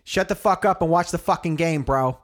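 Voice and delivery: half-hearted yell at a rival fan; mock stadium yell. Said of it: "he's like".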